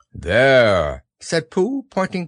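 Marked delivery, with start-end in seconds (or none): 0.1-1.1 loud, growly bear announcement; proud bear. A narrator's reading. Pooh points out his floating boat, proud bear. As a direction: present it loudly as the bear.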